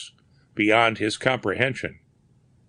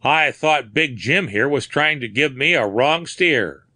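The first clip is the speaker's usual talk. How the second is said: rough patrolman; 5 semitones higher, 3 dB louder than usual. Acted. Patrolman Corcoran reports to group.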